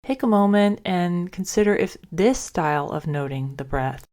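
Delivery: calm, measured guidance with long pauses; guided meditation. Acted. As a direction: lead listeners gently through a breathing practice, leaving space after each phrase. Leads a guided breath meditation.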